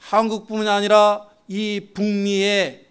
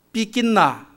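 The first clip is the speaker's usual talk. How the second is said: Gyeongsang dialect demonstration; 2 semitones higher than usual. Shown as a demonstration. Preacher showing Gyeongsang word for hurt feelings, dialect demonstration. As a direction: say it as Gyeongsang people would. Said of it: "경상도 사람들이 마음이 상했다".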